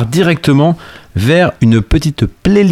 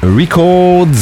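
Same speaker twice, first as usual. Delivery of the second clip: band name in an English accent, drawn out; 4 semitones higher, much slower than usual. Shown as a demonstration. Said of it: "avec l'accent anglais évidemment".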